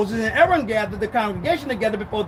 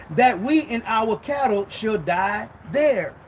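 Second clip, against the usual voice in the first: scripture reading. Acted. Reading scripture aloud slowly.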